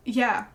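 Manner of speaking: "Yeah" as a puzzled question; imitating an uncertain "Yeah". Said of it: "in a questioning tone".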